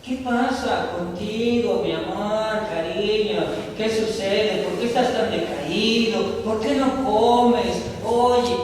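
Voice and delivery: a wife coaxing her sulking husband. Acted. (esposa mimosa, más aguda y lenta)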